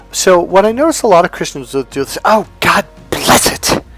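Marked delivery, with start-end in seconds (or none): 2.2-3.8 slow, very angry put-on outburst. Speaker imitates how many Christians exclaim, in a mock-angry tone. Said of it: "they do it in a very angry tone".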